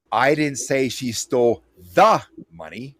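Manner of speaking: "the" singled out before "money"; stress on THE. Shown as a demonstration. The emphasis demo continues, "the" singled out. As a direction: lean on "the". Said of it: "whichever word I accentuate".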